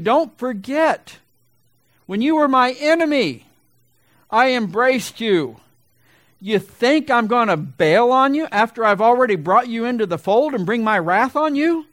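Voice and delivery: tenderly insistent divine voice, stretched out; voice of God. Acted.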